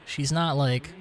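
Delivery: talking through a bite of apple; chewing an apple while talking; mouth full. Real, not acted. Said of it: "Sorry, I'm eating an apple".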